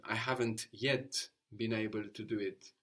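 yet moved after haven't; Italian word order. Shown as a demonstration. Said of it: "or in Italian".

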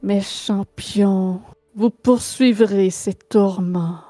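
slow, breathless whisper from the grave; breathless voice from beyond the grave. Acted. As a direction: breathe it slowly like a ghost. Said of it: "un murmure essoufflé à vos oreilles d'une voix d'outre-tombe".

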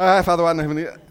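hurried mock-devout recital; rattled-off prayer. Boy repeating his penance at the back of church, rattled off. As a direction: launch straight back into the rote prayer. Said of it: "reciting those as fast as I could".

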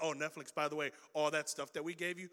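Disney taunting Netflix, sinking into a whisper; sly Disney voice. Retold or imitated. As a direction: hush it like a smug secret. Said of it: "You're like".

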